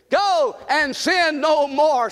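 slow, leading the crowd in unison; slow refrain with the congregation; slow call and response. Shown as a demonstration. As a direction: lead the congregation slowly. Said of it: "Say it with me".

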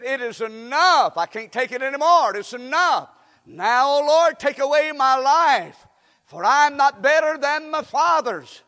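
mildly anguished pulpit quote; despairing prayer. Acted. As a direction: plead loudly to the Lord, worn out. Acts out Elijah's despairing prayer.

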